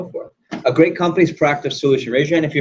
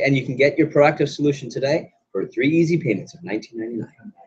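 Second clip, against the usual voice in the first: infomercial pitch. Retold or imitated. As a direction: reel off the offer, dropping away on the price. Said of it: "This is how they say it".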